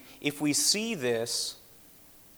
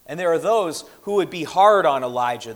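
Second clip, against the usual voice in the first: louder, pressing the point home; raised preaching voice; 4 semitones higher, 8 dB louder than usual. Real, not acted. Preacher to congregation, rising louder. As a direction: lift the voice to challenge the room.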